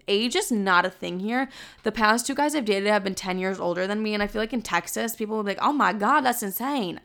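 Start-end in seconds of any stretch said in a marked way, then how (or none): 5.6-7.0 put-on lightly Southern-accented exclamation. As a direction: let a Southern accent slip into the shocked quote. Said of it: "That was, like, my Southern accent".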